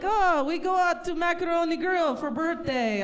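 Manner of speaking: put-on mild Russian dad accent; lightly voiced Russian father. Comic quoting her Russian father, mild Russian accent. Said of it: "So he's like".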